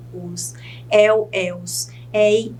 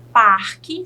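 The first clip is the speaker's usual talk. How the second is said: PARQUE hit loudly on PAR; teacher marking the stressed PAR in parque; stressed syllable demo; 5 dB louder than usual. Shown as a demonstration. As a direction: lean firmly on the first syllable of parque. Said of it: "sílaba tônica par".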